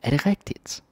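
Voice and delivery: disbelieving. Retold or imitated. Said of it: "We're like".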